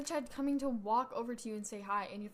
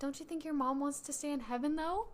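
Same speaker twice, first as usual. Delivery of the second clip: sneering fake sweet; 3 semitones higher than usual. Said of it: "I love doing the Mean Girl voice".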